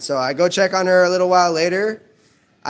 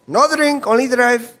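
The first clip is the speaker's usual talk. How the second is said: put-on high, broken-English Filipino accent; clipped Filipino accent, raised pitch; 5 semitones higher than usual. Driver answering the cop in a Filipino accent. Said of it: "the cop got a kick out of his accent".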